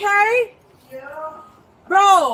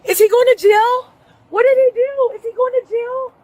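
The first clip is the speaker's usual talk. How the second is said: crying out; 5 dB louder than usual. Real, not acted. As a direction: beg for an answer, near tears. Son being arrested.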